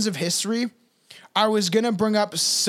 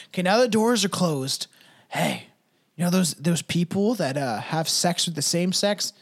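secret bigot voice; 4 semitones lower than usual. Retold or imitated. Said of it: "it's secretly, they're, like, saying".

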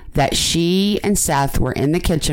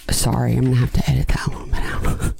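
whispering; 3 semitones lower, faster than usual. Real, not acted. Whispered aside while editing.

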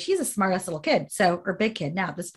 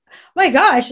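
mimicking a freaked-out friend, higher and louder; louder, high-pitched imitation of panic; retold freak-out; 6 semitones higher, 8 dB louder than usual. Friend who saw the dad fall, retold freaking out. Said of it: "her friend's freaking out".

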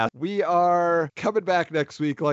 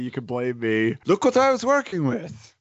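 Guillermo del Toro. Acted. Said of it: "That's my Del Toro impression".

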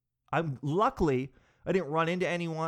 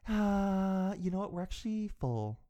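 apologetic receptionist; 4 semitones higher, 4 dB quieter than usual. Retold or imitated. Receptionist says they're full.

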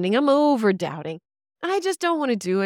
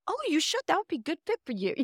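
sincere; 8 semitones higher, 6 dB quieter, faster than usual. Retold or imitated. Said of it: "They sincerely meant that".

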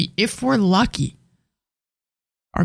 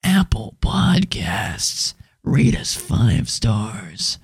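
slow, low breathy whisper; sultry whisper; 9 semitones lower, much slower than usual. Acted. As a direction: purr the words slowly. Spooky sultry ad read.

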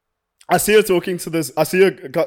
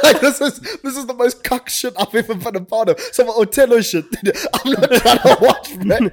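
laughing, embarrassed; 6 semitones higher than usual. Real, not acted. Embarrassed laughing at being cucked.

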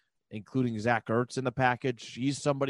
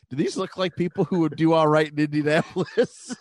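retold quote; 3 semitones higher, 5 dB louder than usual. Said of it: "somebody goes".

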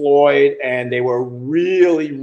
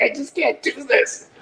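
laughing; 10 semitones higher, 4 dB quieter than usual. Retold or imitated. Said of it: "and I'm just laughing".

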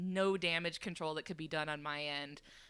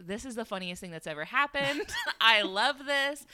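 imitating amused friends, laughing; gleeful, stretched-out retold reaction; losing it, delighted; 4 semitones higher, 4 dB louder than usual. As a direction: relish it with a laugh. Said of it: "they were losing it".

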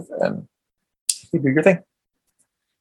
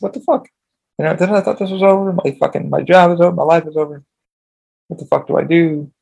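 panicked rant, voice jumping up; mock catastrophizing; 3 semitones higher than usual. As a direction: freak out over it all, half-played. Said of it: "I said".

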